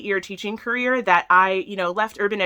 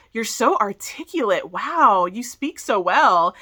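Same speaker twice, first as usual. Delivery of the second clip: amazed; slower than usual. Retold or imitated. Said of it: "kept kind of looking at me amazed".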